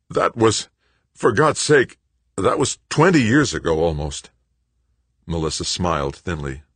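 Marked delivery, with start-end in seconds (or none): 0.1-4.3 strained, high, loud protest; choked out. A narrator's reading. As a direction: force the words out in panic. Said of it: "Greg choked out the words".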